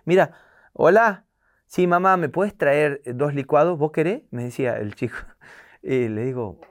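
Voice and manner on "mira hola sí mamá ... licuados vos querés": light, cheerful, higher phone voice; a spoiled kid ordering on the intercom; posh kid. Retold or imitated.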